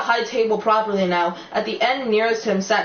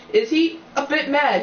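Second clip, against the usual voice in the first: uncertain; 6 semitones higher than usual. A narrator's reading. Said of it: "he asked Percy uncertainly".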